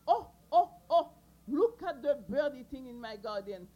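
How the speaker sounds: loud, alarmed cry of a gardener; shocked outcry. Acted. Kanzo spots birds in his garden, loud alarmed cry. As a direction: yell out at the thieving birds.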